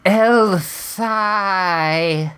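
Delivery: exasperated sigh of ay; Spanish sigh. Acted. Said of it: "you squeezed a Spanish sigh out of me".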